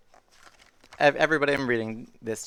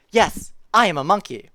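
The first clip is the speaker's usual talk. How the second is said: animated story reading; 6 semitones higher, 9 dB louder than usual. A narrator's reading. Reads silly book line aloud.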